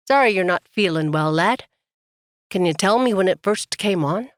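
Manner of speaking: a light, friendly Irish lilt; gentle Irish brogue to put a sick miner at ease; Irish accent. Acted. Doctor soothes a coughing patient in a light Irish accent. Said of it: "bring out the old Irish accent".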